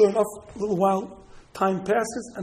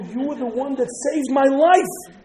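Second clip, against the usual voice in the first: higher, slow, building declaration; emphatic revelation; 5 semitones higher, 4 dB louder, slower than usual. Acted. Prime minister revealing the rescue to his saviour, emphatic. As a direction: land it slowly and emphatically.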